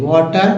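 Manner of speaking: water said with a clear "tar" ending; "ter" ending shown. Shown as a demonstration. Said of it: "टी लगा है तो टर हो गया".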